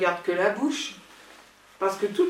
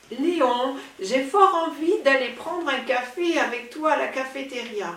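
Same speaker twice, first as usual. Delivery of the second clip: languid voice; 3 semitones higher than usual. Acted. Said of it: "Surtout ne pas oublier la voix langoureuse".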